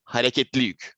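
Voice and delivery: hareketli yük in Turkish pronunciation; Turkish term. Shown as a demonstration. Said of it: "in Turkish".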